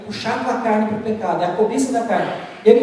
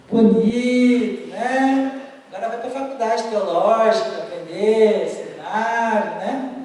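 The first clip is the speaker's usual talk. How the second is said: sarcastic inner voice; slower than usual. Retold or imitated. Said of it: "veio aquela voz assim na minha mente".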